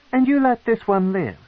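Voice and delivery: high, reproachful matron voice; stern matron. Acted. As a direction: remind him coldly as a queen.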